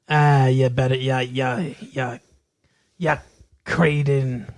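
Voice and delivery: lightly put-on Irish accent; mock stage-Irish threat; mock Irish God. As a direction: improvise as a halting Irish God. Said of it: "can't think of an Irish slang word".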